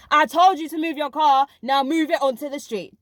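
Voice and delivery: half-hearted retold shout at a teacher; mock shout. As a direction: play her storming up and shouting, not a full yell. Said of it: "storm up to me and shout at me".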